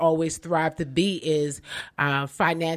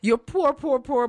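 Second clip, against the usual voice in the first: mock emphasis; 7 semitones higher than usual. Mocking poor grit people.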